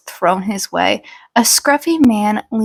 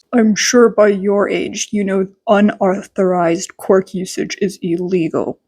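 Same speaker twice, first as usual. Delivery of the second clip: irritated drawl; 3 semitones lower than usual. Acted. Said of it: "he drawled out his irritation".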